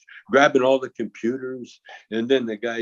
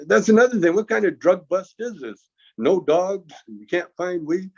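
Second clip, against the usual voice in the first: mocking scorn; 4 semitones higher than usual. Mocking the drug bust.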